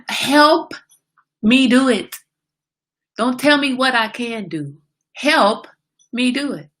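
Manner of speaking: insistent plea. Retold or imitated. Child begging mother for real help, loud and high. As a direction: demand it, pitch jumping up.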